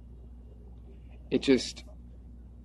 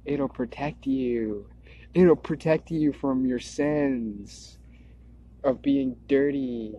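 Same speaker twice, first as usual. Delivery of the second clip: mock government voice; slower than usual. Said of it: "government be like".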